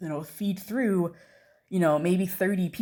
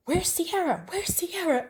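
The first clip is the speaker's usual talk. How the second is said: high calling voice, searching for someone; 12 semitones higher, slower than usual. Retold or imitated. Wendy at the front of the wing calls out, high. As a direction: call her name twice across the wings.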